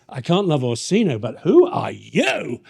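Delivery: loud, drawn-out "who are you"; hammed-up, loud and slow on the newcomer; smitten double take. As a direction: turn from refusal to bowled-over interest. Acted swerve to new love interest.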